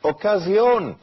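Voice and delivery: high sing-out to passers-by; imitated market seller's call; street vendor's cry. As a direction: call out high like a boy selling socks. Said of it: "he cries out".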